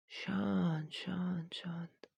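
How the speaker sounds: breathy hush to calm her down; hushing whisper. Acted. Trainer hushing his startled client in a whisper. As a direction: whisper it, soothing a startled girl.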